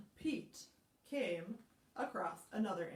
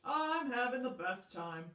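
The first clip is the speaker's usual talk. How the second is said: higher, louder cheery frog; happy Frog; 3 semitones higher, 6 dB louder than usual. Acted. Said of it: "And Frog said".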